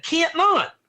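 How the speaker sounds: high Texan "Can't not" with a drawn-out "not"; Texan drawl. Shown as a demonstration. Teacher shows students how a Texan says it, in drawl. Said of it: "that's how you would say it".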